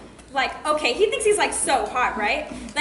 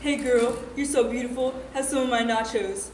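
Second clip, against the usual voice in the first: lightly voiced would-be charmer; smooth-talking boyfriend; 4 semitones lower than usual.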